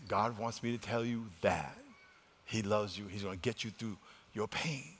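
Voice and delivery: low, soft retold message of comfort; quiet reassurance. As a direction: pass it on gently, keeping the voice down. Retells private message to hurting woman.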